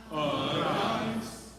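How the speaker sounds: Arise with a quick tapped R, sung out loud; flipped R. Shown as a demonstration. Choir director modeling the tapped R for singers. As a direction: flick the tongue once on the R of Arise. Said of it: "flip your R if you can".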